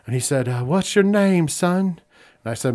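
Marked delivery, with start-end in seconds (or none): 0.6-2.0 higher-pitched, soft-spoken old-timer impression; Terry Funk. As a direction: imitate a gentle, soft-spoken veteran. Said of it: "when I did the voice, he's very soft-spoken".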